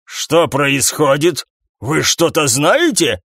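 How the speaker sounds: slow, wary question; slow alarmed boss. Acted. Captain sensing trouble, slow and wary. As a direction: press them slowly.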